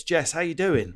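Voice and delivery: decent Brummie imitation, slightly lifted; Birmingham accent. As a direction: greet them in a put-on Brummie accent. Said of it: "that was not a bad Birmingham accent".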